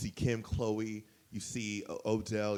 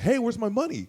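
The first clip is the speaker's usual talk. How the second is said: high-pitched retold demand for money; mock angry demand; 12 semitones higher, 3 dB louder than usual. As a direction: imitate someone calling out to collect a debt. Imitating Jeff demanding his money.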